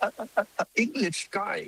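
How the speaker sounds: slow, high, showy English with a put-on foreign accent; affected English accent. Shown as a demonstration. Showing off an affected foreign accent to impress listeners with English. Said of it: "ผมก็ดัดจริตนะ".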